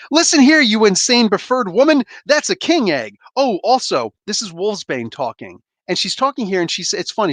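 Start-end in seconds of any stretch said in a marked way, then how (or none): 0.1-5.6 voicing Broo. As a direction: scold her like a fussy little alien. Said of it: "I'll give it my best effort".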